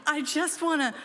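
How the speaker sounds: ordinary delivery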